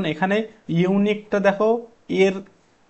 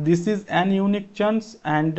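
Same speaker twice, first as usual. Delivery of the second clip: slow trial reading of 'This is an unique chance' as a wrong answer; wrong option read out; 3 semitones higher, much slower than usual. Shown as a demonstration. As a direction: try out the wrong article slowly, testing it. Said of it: "এটা তো হবেই না".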